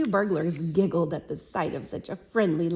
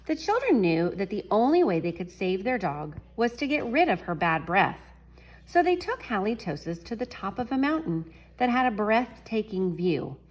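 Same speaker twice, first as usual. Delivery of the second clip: story reading; 3 semitones higher than usual. A narrator's reading. Reads picture book to class.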